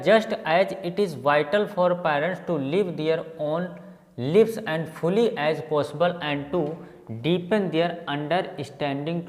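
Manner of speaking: slow, word-by-word reading; reading a passage aloud. Real, not acted. Teacher reads an unseen passage to students, slow read-aloud. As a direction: read out carefully in measured chunks with pauses.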